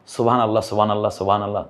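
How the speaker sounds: সুবহানাল্লাহ gabbled fast, sounds swallowed; rushed wrong recitation. Shown as a demonstration. Teacher mimicking careless fast tasbih, rushed and slurred. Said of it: "এগুলো ভুল".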